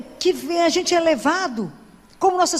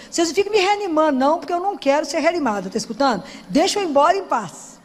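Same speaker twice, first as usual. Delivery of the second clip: insistent plea; 4 semitones higher, faster than usual. Retold or imitated. Retelling pleas in the ICU.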